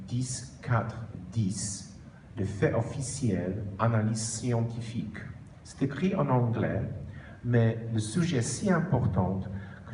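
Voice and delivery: French with a Polish accent; careful French with a Polish accent. Real, not acted. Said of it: "mon français, malheureusement, n'est pas superbe". (accent polonais en français)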